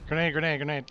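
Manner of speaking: urgent repeated grenade call; grenade warning yell. Real, not acted. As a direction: shout the warning fast.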